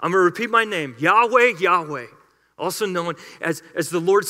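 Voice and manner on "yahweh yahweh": proclaimed. Acted. Name proclaimed, repeated.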